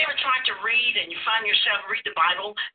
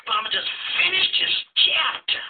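pitched up, mock alarm at the clock; startled late-night reader; 2 semitones higher than usual. Preacher voicing a late-night reader, lightly startled. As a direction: play the reader who just noticed the time.

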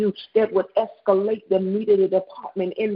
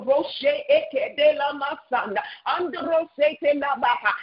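speaking in tongues; 4 semitones higher than usual. Real, not acted. Prayer in unknown syllables.

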